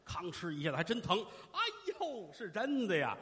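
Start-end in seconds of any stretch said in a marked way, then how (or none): 1.5-3.2 mild theatrical wail of reunion; tearful old mother. Acted. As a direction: stretch the cry with rising emotion. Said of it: "放声痛哭".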